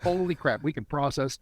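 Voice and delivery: grateful pride. Acted. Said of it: "is to be grateful".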